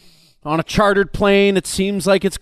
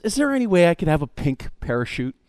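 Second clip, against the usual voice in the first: lightly sweet, softer voice; a hint of a sugary passenger; sweet request; 4 semitones lower, 4 dB quieter, faster than usual. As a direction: ask it sweetly and softly. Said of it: "in all their sweetness".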